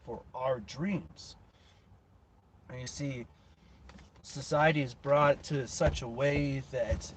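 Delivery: emphatic, punched motivational speech; motivational preaching. Real, not acted. Host urging listeners to chase their own dreams, impassioned preaching. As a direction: drive each phrase home like a motivational speaker.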